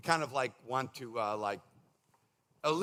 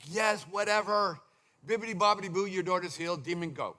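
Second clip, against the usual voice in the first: bored brush-off. Retold or imitated. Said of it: "could have easily been annoyed".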